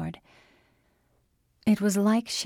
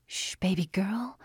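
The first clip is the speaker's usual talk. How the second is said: whispering. A narrator's reading. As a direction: hush her gently. Mother soothing sick child.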